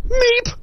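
tiny high startled squeak; comic high meep of shock. Retold or imitated. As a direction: squeak like a frightened small animal. Dumbfounded like deer in headlights.

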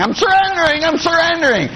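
mock protest. Protesting the ladies' prayer.

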